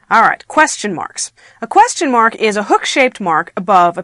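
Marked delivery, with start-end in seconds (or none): none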